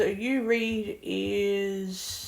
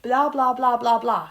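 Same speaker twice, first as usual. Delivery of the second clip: mocking gabble; 3 semitones higher, 5 dB louder than usual. Learner mocking the too-fast Italian app, mocking gabble. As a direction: rattle off mock gibberish. Mocks the app's fast speech.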